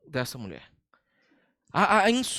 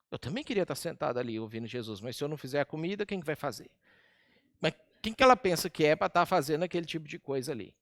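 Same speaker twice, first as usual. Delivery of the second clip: Marta muttering to herself; 4 semitones lower, 6 dB quieter, much faster than usual. Retold or imitated. Marta's muttered thoughts at stove.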